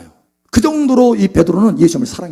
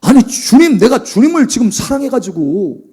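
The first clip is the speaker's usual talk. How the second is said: hurt protest; 3 semitones higher than usual. Acted. Acting out Peter's hurt protest.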